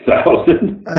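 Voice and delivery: "Thousand?" breathed out high and unvoiced in shock; stunned disbelief. Actor learning his host's salary, high breathless "Thousand?". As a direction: gasp the word "Thousand?" as if you can't believe it. Actor hears her huge pay.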